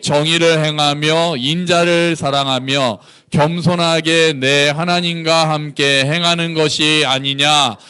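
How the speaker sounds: slow, measured congregational recitation; scripture reading. Acted. Preacher leading the congregation in the verse, slow recitation. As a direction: read the verse out slowly and evenly.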